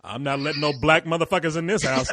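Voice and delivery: lightly voiced disapproving father; a hint of a refusing dad; imitating friend's dad. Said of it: "he makes his dad sound like".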